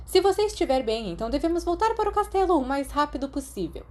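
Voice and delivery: a strict witch teacher explaining; stern teacher voice. A narrator's reading. McGonagall voiced by narrator. (professora severa, voz mais aguda)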